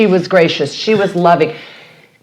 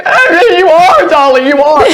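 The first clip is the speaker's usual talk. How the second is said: higher, louder, crying as she retells it; tearful; 8 semitones higher, 4 dB louder than usual. Retold or imitated. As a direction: choke up while insisting. I'm gonna cry.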